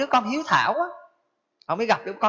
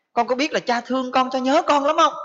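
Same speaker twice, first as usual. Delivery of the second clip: pleading father; 4 semitones higher than usual. Acted. Father telling his second son he misses him, pleading. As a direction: voice rising into an acted plea.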